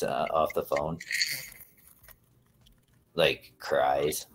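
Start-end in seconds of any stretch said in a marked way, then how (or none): 3.1-4.3 hushed, whispered mock emphasis on "cries"; sarcastic. Teasing a friend about how much she cries, sarcastic. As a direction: whisper "cries" as if it were shocking. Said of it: "I'm being sarcastic".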